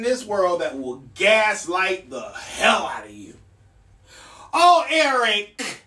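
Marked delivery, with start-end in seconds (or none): 4.5-5.8 slow, sing-song "Oh, Eric" talking down; condescending mock sigh. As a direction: play the patronising colleague. Mocking gaslighter's reply.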